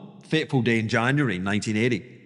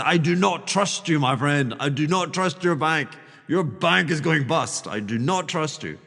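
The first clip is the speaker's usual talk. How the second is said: "not" leaned on each time in "I do not trust you"; a distrustful banker hitting "not"; stress on not. Retold or imitated. Banker refusing a counterparty, pressing on "not". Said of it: "we went from a trusting system to a trustless".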